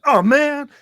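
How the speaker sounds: high, loud mock wail; mimicking the fan. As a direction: throw the fan's letdown back, shrieky high. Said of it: "And I went".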